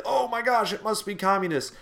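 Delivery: high, loud mock alarm; mock sensationalizing media. Media crying communists after bombings, hammed-up sensationalized alarm. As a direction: blow it up like a breathless headline. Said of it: "that whole media sensationalizing stuff".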